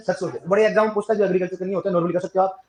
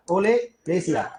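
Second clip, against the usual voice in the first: ओलेरेसिया stretched out syllable by syllable; teacher drawing out ओलेरेसिया slowly; slow, spelled out; much slower than usual. Shown as a demonstration. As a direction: say ओलेरेसिया very slowly so the class can copy it.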